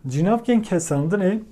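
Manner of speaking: "cinavken kesandını" said slowly and clearly; slow, careful teaching repeat of "cinavken kesandını". Shown as a demonstration. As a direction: spell out "cinavken kesandını" at dictation pace for learners. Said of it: "term said then repeated".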